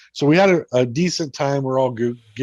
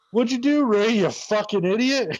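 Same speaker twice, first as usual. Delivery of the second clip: mock piercing, shrill yell, very high pitch; 9 semitones higher than usual. Retelling what was called out from down the trail: imitating a yell. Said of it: "Palmer yells out".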